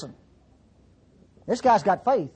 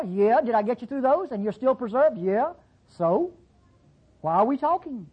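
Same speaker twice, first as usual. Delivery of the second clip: voicing God; 4 semitones higher than usual. Preacher voices God answering him.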